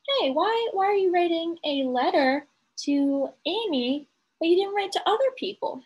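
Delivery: a lightly voiced questioning mother; curious mother. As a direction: puzzle over it like a nosy mother. Teacher voices curious mother paraphrase.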